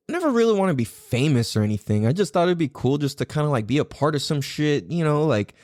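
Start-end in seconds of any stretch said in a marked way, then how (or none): none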